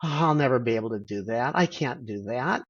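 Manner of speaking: understated hopeless inner voice; defeatist attitude. Retold or imitated. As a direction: sigh out a mild I-give-up. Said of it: "take an attitude of".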